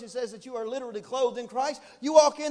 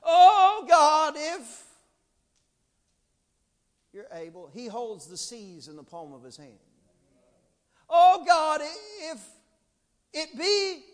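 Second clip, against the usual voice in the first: timid hesitant prayer; 9 dB louder, slower than usual. Retold or imitated. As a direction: pray like you barely dare to ask. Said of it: "You go to God".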